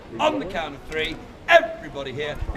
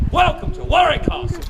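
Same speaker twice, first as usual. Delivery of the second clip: higher-pitched showman's announcement; rousing welcome; 8 semitones higher, 3 dB louder than usual. Real, not acted. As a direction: call out a welcome to the crowd. Showman cueing the crowd's cheer.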